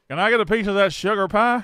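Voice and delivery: put-on very loud, high old Southern man voice. Repeating own line as a pickup line: old Southern man pickup line. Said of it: "a pickup line from an old Southern man".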